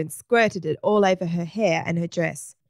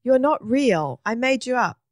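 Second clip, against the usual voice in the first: higher, worried protest; 6 semitones higher than usual. A narrator's reading. Egbert to the balloon man he invented, worried. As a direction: deny it with rising worry. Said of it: "very worried".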